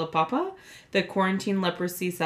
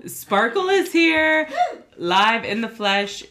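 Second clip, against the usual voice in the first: announcer voice; 5 semitones higher, 6 dB louder, slower than usual. Acted. Announcing the guest dramatically.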